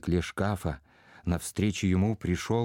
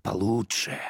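half-whispered, breaking off into private thought; muttering to himself. A narrator's reading. Prince drifting into his own plans, muttering. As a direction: murmur it as if half to yourself. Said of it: "Князь пробормотал что-то про себя".

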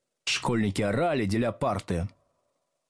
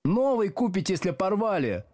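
high-pitched complaint; grumbling retort; 9 semitones higher than usual. A narrator's reading. Schoolgirl to teacher about torn bag, complaining. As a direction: grumble it high, without muttering. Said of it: "пробурчала девица".

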